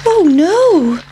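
high squeaky pancake, alarmed; frightened high pancake voice. Acted. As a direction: pitch it up as a panicky little pancake. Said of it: "thought the pancake".

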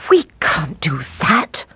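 tearful whispered plea; pleading through tears; crying. Acted. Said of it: "cried the woodcutter".

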